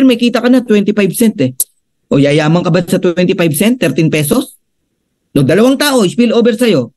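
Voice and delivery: fired-up, slightly exasperated explaining; with gigil. Real, not acted. Coach scolding members who won't invite, with gigil. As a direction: push it with passion like a coach. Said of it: "Eh, ba't galit ka?".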